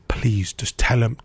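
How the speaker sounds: pleading. Retold or imitated. Begging tutor, breathy and slow.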